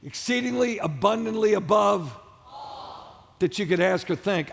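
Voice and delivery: slow, shouted, every word stressed; slow emphatic shout. Shown as a demonstration. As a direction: drive each word home slowly. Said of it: "Everybody say all".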